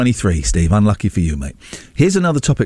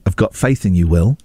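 lightly voiced coaxing parent, pitched lower; pretend daddy; 5 semitones lower than usual. Host playing Daddy asking for a topic, mock-parental coaxing. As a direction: coax him like a child, low and patient. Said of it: "Mummy and Daddy".

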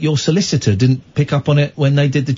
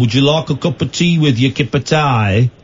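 put-on Brummie accent; 2 semitones lower than usual. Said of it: "your Birmingham accent".

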